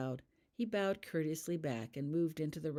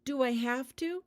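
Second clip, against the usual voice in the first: higher, louder pleading; beseeching; 9 semitones higher, 5 dB louder than usual. A narrator's reading. Holly to Professor Lovegood, beseeching higher plea. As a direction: beg to be let off. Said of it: "she beseeched".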